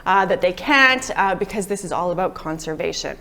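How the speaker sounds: hoarse voice fading near the end; losing voice. Real, not acted. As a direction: push words out of a worn, hoarse throat. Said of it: "sorry, I'm losing my voice here".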